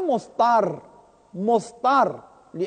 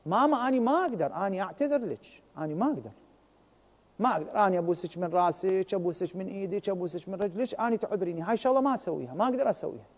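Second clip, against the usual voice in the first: soft pleading refusal to mother; tender apologetic no, softer at the end; kind refusal; 3 semitones lower, 6 dB quieter, faster than usual. Shown as a demonstration. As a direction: beg her gently while refusing. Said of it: "بطريقة طيبة".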